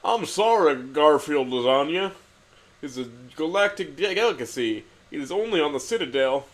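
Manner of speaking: a sergeant faking grief over lasagna; understated mock lament; mock deep sorrow. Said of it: "said the mess sergeant with a deep sorrow".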